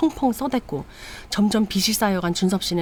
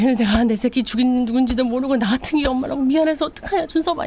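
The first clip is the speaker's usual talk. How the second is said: high wailing cry for her son; keen over the lost child; grieving mother's lament; 5 semitones higher than usual. Retold or imitated. Mother lamenting her dead son, high and wailing.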